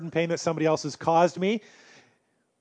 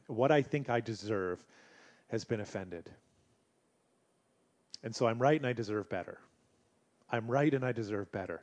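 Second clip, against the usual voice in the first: wounded ego; 7 semitones lower, 9 dB quieter than usual. Retold or imitated.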